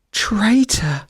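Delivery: shrill squirrel cry. A narrator's reading. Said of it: "cried the squirrel shrilly".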